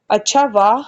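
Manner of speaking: bright eager rise on the question; eager to see inside the box; lightly excited girl asking to open it. A narrator's reading. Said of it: "excited होकर बोली".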